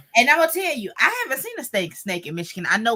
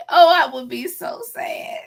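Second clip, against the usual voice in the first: breathy whisper on the edge of tears; tearful whisper; whispered near tears; 2 semitones higher than usual. Real, not acted. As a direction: let it go to a whisper as you well up. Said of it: "I'm almost in tears now".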